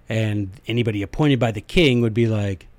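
normal talking voice

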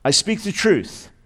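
slow, weighty "I speak the truth" with "speak" hit hard; stress on speak. Shown as a demonstration. Pastor showing Paul's first emphasis, "speak" stressed slowly. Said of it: "That's emphasis number one".

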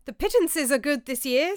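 change the subject with gusto; cheerful. A narrator's reading. Orderic to the table, cheerfully changing the subject. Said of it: "said Orderic cheerfully".

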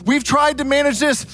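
panicked disciples shouting to wake their master; a hammed-up rush to save a sleeping friend; urgent pleading. Disciples urgently waking Jesus.

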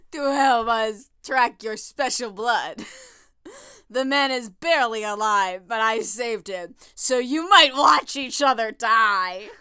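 hammed-up, botched German accent; Stockman. Podcaster reads the villain's threat, attempted German accent. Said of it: "I'll give him a German accent".

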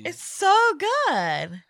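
slow, stretched-out savoring; savoring delicious food. Real, not acted. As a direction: linger on it after a tasty sip. Tasting the mystery beer.

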